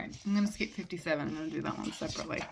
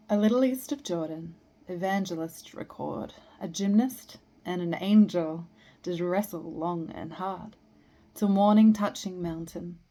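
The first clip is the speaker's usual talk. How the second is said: measured poem recital with line breaks; poetry reading; 7 dB louder, slower than usual. Acted. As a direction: recite verse, pausing after each phrase. Reads a poem aloud.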